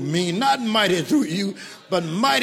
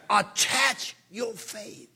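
dictating; 5 dB quieter, much slower than usual. Acted. Dictating a definition to copy.

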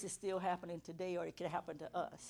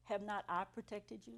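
lightly voiced God, softer and measured; God's questioning voice; 6 dB quieter than usual. God questioning a complaining woman, softly voiced. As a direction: ask it softly, with quiet gravity. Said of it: "He said".

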